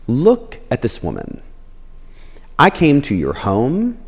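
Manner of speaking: calm, poised rebuke with long pauses; measured, unhurried reproach to a host; Jesus. Retold or imitated. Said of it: "Jesus is this calm, poised person".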